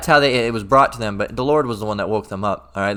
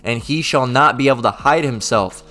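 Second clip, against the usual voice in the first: scripture reading. Acted. Preacher reads scripture aloud.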